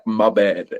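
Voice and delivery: low-pitched imitation American accent. Quoting how he literally responded, in an imitated American accent. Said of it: "That was a really good American accent".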